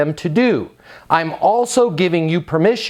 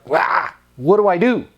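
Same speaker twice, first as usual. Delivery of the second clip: mock whine; 4 semitones higher than usual. Whiny mock seller panicking.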